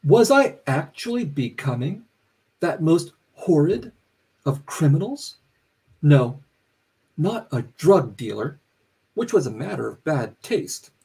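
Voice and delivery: measured reading of a narrator's musing; literary reading. A narrator's reading. Author reading the narrator's self-questioning aloud, measured and deliberate. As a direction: read it deliberately, pausing between phrases.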